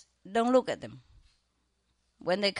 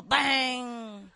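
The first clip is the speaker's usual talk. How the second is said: imitated bang; 5 semitones higher than usual. Sound of thrown bowl hitting floor.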